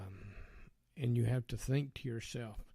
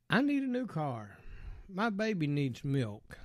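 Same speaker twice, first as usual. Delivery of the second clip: imitating a needy woman, pitched higher; mock needy woman; 5 semitones higher than usual. Retelling women who hound him, mock needy woman voice.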